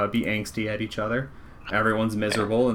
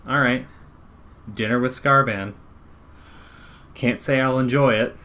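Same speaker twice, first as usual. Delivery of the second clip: light amused voice, louder; chuckling NPC; 3 semitones higher, 4 dB louder than usual. Acted. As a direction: say it with a dry chuckle. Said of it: "she laughs, she chuckles a little bit, she says".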